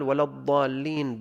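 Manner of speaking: الضالين said with an emphatic "z" sound for the ض; zaa for daad. Shown as a demonstration. Teacher showing a mistake, الضالين said with ظ in place of ض. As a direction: swap the ض of الضالين for ظ. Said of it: "بالضاء".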